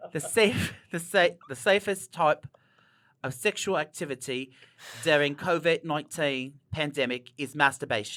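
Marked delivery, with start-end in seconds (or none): 1.5-8.2 slow, careful, put-on British accent. Asked to read the CDC recommendation, speaker reads it in a British accent. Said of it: "Read the C D C recommendation with a British accent".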